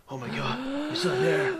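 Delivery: high, frightened little voice; scared Link. Retold or imitated. Imitating Link creeping along, frightened high voice. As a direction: jump up high like a spooked hero. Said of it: "That's what he sounds like".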